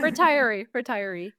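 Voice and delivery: "Retiree" said ri-tire-ee, with "tire" clear in the middle; correct pronunciation. Shown as a demonstration. Host gives her co-host the word she asked about, "Retiree" as ri-tire-ee. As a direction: model the word "Retiree" as ri-tire-ee, then repeat it. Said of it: "Is that the right word?".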